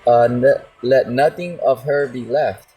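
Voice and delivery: slow, deliberate preaching of the verse; scripture reading. Acted. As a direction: lay each phrase down slowly and gravely. Reads verse twenty-six aloud.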